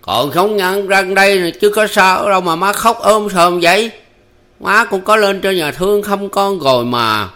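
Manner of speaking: raising his voice. A narrator's reading. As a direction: call up at her loudly to stop her fussing. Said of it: "ngước mặt lên to tiếng".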